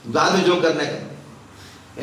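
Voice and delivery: hammed-up little-boy begging to be spared; fake tearful pleading. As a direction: plead like a child putting on tears. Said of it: "नाटक किया".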